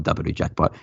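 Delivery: "double do jackpot" said as a Japanese speaker says English; "double do jackpot" with added Japanese vowels; Japanese-English pronunciation. Shown as a demonstration. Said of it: "when Japanese people say English words".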